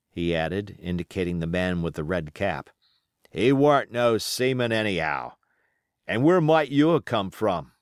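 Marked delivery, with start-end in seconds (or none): 3.3-7.7 put-on wounded old pirate, rough and grumbling; pirate sailor. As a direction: play the injured seaman, griping. Pirate Hands speaks.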